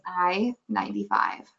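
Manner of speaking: put-on toned-down Iowa accent bingo call; dumbed-down Iowa call. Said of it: "but now it's more like".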